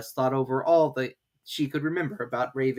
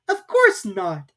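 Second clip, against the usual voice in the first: very slow, higher reply; ready Alice; 7 semitones higher, 7 dB louder, much slower than usual. A narrator's reading. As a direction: answer promptly. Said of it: "Alice replied very readily".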